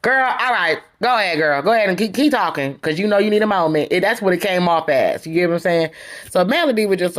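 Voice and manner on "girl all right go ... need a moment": imitated dismissive go-ahead. Retelling how Destiny came off to Melody, dismissive. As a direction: wave her on as if humouring her. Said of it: "It didn't come off that way. It came off".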